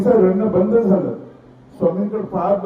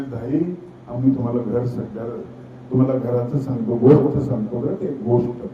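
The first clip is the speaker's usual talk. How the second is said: gentle coaxing; 9 semitones lower, 4 dB quieter than usual. Retold or imitated. Swami comforting a crying girl.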